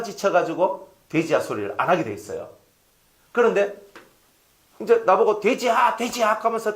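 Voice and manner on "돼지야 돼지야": mock taunting. Acts someone teasing him.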